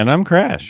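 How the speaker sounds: very high voice that cracks. Co-host giving their name at the podcast's start, voice crack. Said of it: "A little voice crack in there".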